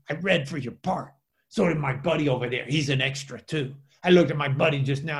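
imitating an extra's chatty Spanish accent; thick Spanish accent. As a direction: explain it in a put-on Spanish accent. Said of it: "with a really thick, uh, Spanish accent".

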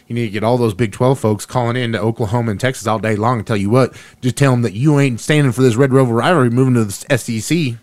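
put-on folksy Texas accent, fired up; rally the fans in a mock Texas accent. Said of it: "I'm talking my Texas accent now".

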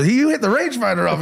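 high-pitched imitation of an Asian accent; mock Asian accent. Quoting the shocked boy in a mock Asian accent. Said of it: "whatever his accent was".

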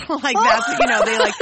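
talking through real laughter; giggling out the words; laughing. Real, not acted. Laughing to the co-host about the kid's answer, words bubbling with laughter.

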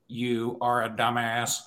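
slow flat robot voice. Retold or imitated. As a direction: speak like a computer voice. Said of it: "In a robot voice".

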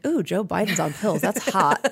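lightly voiced swoon at the pills; a touch of teasing lust in the voice; mock swooning. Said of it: "and I was like".

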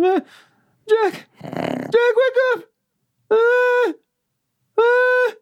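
high bleating goat voice. Acted. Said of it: "doing goat voices in his face".

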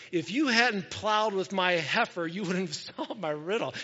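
trying to say it without chuckling; a real chuckle breaking into the quote. Real, not acted. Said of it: "can't even say that without chuckling".

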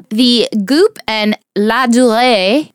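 slow, careful French accent. Shown as a demonstration. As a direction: say La Durée the French way. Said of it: "My French accent's terrible".

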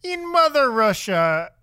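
mock Russian accent. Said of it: "sign off in their best R-, Russian accent".

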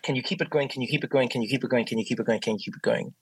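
rattled-off repetition, steadily sinking in pitch and fading; weary mantra tailing off; relentless repetition. Retold or imitated. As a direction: repeat it like a treadmill, running down. Voicing the team's relentless grind.

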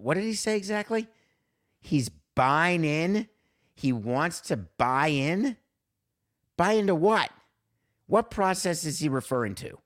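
can't believe what he just heard; incredulous. Real, not acted. Reacting incredulously to the clip.

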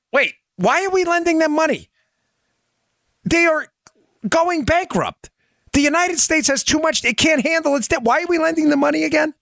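very high-pitched mock disbelief; squeaky-high, exaggerated protest; incredulous lender countries.

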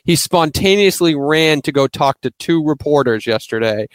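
spontaneously said slowly and leaned on hard; stress on spontaneously. Real, not acted. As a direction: lean into the word spontaneously, slow and pointed. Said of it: "I wanna emphasize the word spontaneously".

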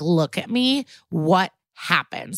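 mock-stern, slowing on the question. Detective who has lost patience with a suspect, stern. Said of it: "Benson gets super stern".

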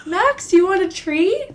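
high, loud sing-song treat offer; baby talk to a dog. Pretend. Owner talking to the dog.

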